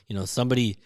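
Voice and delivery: ordinary talk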